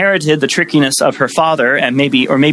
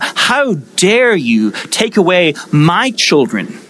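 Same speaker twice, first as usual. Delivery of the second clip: enraged Laban; 4 semitones higher, slower than usual. Retold or imitated. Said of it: "he is enraged".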